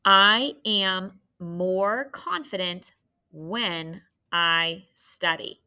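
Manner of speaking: slow, word by word with pauses; dictation. Shown as a demonstration. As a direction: dictate so they can write along. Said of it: "to check your sentence".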